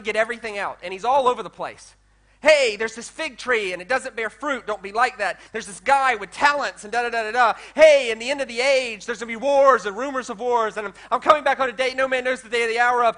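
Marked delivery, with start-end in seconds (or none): 2.4-13.2 loud, rushed list of warnings; rapid-fire urgency. Acted. Preacher voicing Jesus rushing every warning out, urgent and loud. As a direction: fire it off like a Gatling gun. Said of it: "like a Gatling gun".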